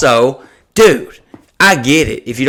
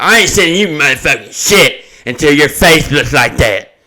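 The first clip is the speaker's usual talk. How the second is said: mock troll commenter. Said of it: "Don't comment and be like".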